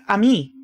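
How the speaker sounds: "ami" said as a Spanish word; Spanish pronunciation. Shown as a demonstration. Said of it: "like the Spanish word".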